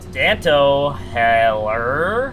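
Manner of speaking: called-out hello to a friend; loud greeting. Real, not acted. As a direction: hail your buddy loudly. Calling out a greeting.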